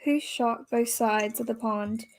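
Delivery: put-on British accent slipping into Australian; put-on Brit reading a quiz question; attempted British accent. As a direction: try a British accent, not quite landing it. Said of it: "say that in your British accent".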